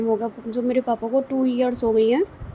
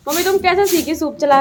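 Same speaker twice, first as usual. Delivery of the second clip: higher, louder call to mom; 7 semitones higher, 8 dB louder than usual. Real, not acted. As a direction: call across the yard to her. Calling to mom across yard.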